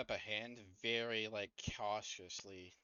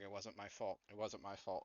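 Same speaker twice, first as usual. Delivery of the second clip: muttering; 5 dB quieter than usual. Acted. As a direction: mutter it over and over to yourself. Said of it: "he starts muttering".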